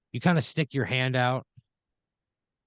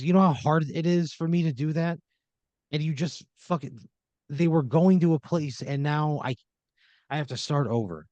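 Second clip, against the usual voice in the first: frustrated angel; 4 semitones higher than usual. Pretend. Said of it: "He's, like, very frustrated with you".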